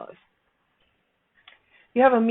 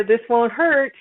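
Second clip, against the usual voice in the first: nurse; 3 semitones higher, 5 dB louder, slower than usual. Retold or imitated. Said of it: "The next time you hear".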